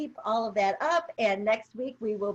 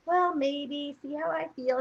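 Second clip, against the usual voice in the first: lightly mocked wishy-washy waffling; mock half-committed maybe; noncommittal imitation; 3 semitones higher, slower than usual. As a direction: imitate someone hedging, pitched a little higher. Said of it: "The way you're saying it is".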